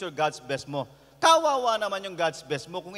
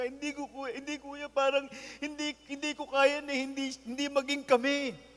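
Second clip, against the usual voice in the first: lightly voiced, higher pleading young man; lovesick young man; 5 semitones higher, 3 dB quieter than usual. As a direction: plead like a heartbroken younger brother. (bahagyang mataas, nagmamakaawang binata)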